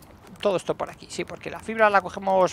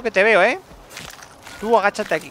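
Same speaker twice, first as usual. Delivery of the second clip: normal talking voice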